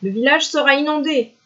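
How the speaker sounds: lightly voiced high fox; yapping foxes. A narrator's reading. Foxes foretelling a flood, high yapping voice. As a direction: pitch it up for the foxes' warning. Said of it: "jappaient les renards".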